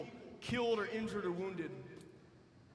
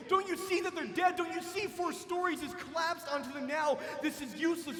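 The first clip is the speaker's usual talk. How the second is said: mocking shout; 4 semitones higher than usual. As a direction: yell it at him like he's crazy. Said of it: "mocking him".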